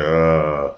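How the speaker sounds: low drawn-out "uhhh"; mock-stumped hesitation noise; imitated "uh". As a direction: answer with a long, droning mock "uh". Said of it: "And I said".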